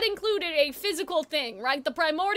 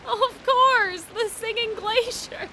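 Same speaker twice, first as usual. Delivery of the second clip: mild sarcasm; 3 semitones higher, slower than usual. Retold or imitated. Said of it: "they said it so sarcastically".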